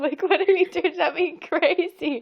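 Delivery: high, loud, laughing hard while talking; cracking up. Real, not acted. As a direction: barely get the story out for laughing. Cracking up telling toddler story.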